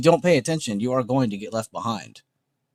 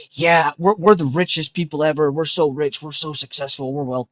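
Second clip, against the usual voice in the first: mock bragging; 4 semitones higher than usual. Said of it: "glaze my own Discord and be like".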